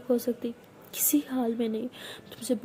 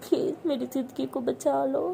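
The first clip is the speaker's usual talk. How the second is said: frightened tearful begging. Acted. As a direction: beg as if your whole life depends on it. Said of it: "तो उसे बोल के बहुत ज़्यादा रोती है".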